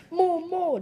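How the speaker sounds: high insistent little voice; a tiny face demanding food; small demanding voice. Acted. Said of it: "demanded the little face".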